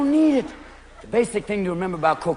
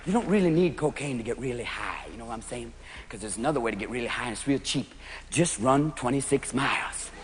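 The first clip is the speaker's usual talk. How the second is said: much softer and lower; hushed aside; 9 semitones lower, 10 dB quieter than usual. Real, not acted. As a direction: lean in and let them in on a secret.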